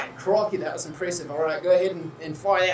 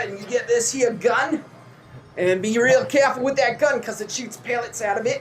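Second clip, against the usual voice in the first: put-on drifting Aussie accent; 3 semitones higher than usual. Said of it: "It's starting to do a little bit of New Zealand".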